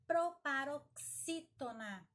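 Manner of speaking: "Proparoxítona" slowly, strong on "xí"; slow, emphatic dictation of "Proparoxítona"; syllable by syllable. Shown as a demonstration. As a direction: stretch and split "pro-pa-ro-xí-to-na". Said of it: "é a mais forte".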